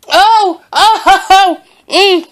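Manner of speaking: high laughing "oh, oh" at the sourness; shocked sour laugh. Real, not acted.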